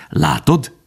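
called out. A narrator's reading. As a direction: call out to make him look. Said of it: "kiáltotta".

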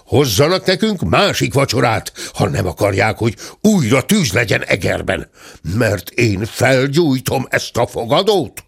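irate guest's ultimatum; shouted demand. Acted. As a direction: insist with mounting acted anger. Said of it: "kiabált a ténsúr".

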